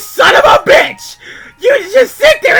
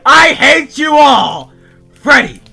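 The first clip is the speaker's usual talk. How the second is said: screamed, high-pitched accusations, dragged out word by word; furious rant; 13 semitones higher, 13 dB louder than usual. Acted. Freddy raging at his barnyard friends in his letter, furious screaming. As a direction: scream it at the friends who wronged you.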